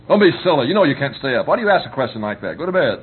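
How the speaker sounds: put-on curt, brushing off the child's wish; a mild mock scolding, sending the kid to bed; dismissive parent.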